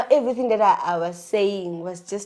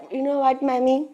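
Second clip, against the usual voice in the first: put-on higher-pitched child making a promise; hint at an earnest boy announcing plans; lightly voiced little boy; 5 semitones higher than usual. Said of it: "He's like".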